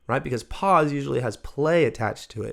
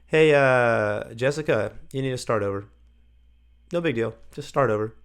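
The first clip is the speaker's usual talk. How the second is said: easygoing restart request; casual, no big deal. Shown as a demonstration. Teacher telling Jessica to start over, casually. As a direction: let them off lightly. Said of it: "very casually, you know, like".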